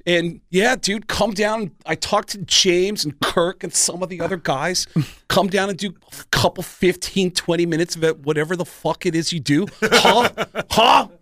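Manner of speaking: Lars. Retold or imitated. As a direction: leave a casual phone message in a high put-on voice. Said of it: "I still have the message on my".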